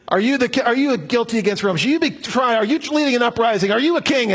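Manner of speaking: a hint of an incredulous Roman governor grilling him; lightly voiced Pilate. Preacher voicing Pilate questioning Jesus, mildly pushy.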